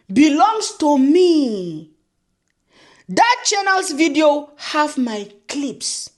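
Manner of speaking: slow, mocking read of the letter's words. Reading the rival's letter aloud, slow and mocking. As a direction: drag the letter out to ridicule it. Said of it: "Informal letter to you".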